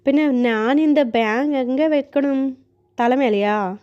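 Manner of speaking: a mild angry retort in Malayalam, slow; a touch of heated Malayalam protest; flaring up in Malayalam. Acted. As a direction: snap back in Malayalam, slow. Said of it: "మండిపడ్డాడు Malayalam".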